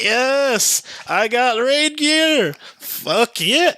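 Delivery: high, slow, triumphant cheer over the loot; excited cheer. Retold or imitated. Gamer retelling his own cheer at getting raid gear, triumphant. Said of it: "I was like".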